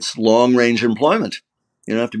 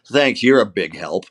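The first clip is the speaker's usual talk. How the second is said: understated sarcastic thanks; mild sarcasm. Shown as a demonstration. Actor shows American habit of not meaning it, sarcastic. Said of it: "we know that I don't mean it".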